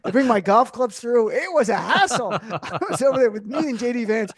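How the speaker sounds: mock Trump boasting about golf clubs; Trump-style brag. Impersonating Trump bragging about golf.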